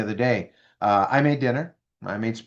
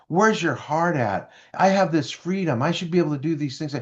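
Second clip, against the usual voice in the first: emotional person; 4 semitones higher than usual. Retold or imitated. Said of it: "the other person".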